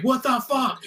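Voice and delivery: play-acted, shrill, very high-pitched scream. Retelling watching a show at home: retelling screaming at the TV. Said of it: "I was screaming at the T V".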